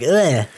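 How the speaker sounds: mock groan of distaste; short imitated "ugh" of revulsion; disgusted ugh. Voicing her uneasy reaction to him.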